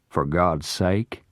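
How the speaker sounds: slow, sneering question that throws the words back; mocking echo. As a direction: echo his plea with scorn. Parker mockingly echoes the plea.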